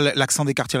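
a quick, lightly mocking quote of what people say; quick mock quote of a cliché; quoting people dismissively. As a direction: toss off the cliché as others say it. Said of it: "quand les gens disent".

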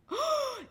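sharp, high-pitched gasp; big gasp of discovery; shocked gasp. Real, not acted. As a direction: suck in air in sudden realisation. Realises the song's film was wrong.

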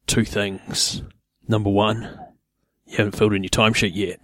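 softly imitated boss, spaced out; lightly put-on radio-man delivery with pauses; deep radio voice. Imitating the boss listing two things, lightly put-on radio voice. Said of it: "So deep".

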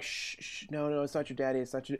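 put-on whispered, hushing a crying child; shushing whisper from a mother; mom shushing. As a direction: soothe the kid in a hush. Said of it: "I heard the mom saying".

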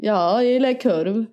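slow Värmland dialect; Värmland accent. Acted. Playing a sausage-loving local, Värmland accent. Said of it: "Det är lite värmländska".

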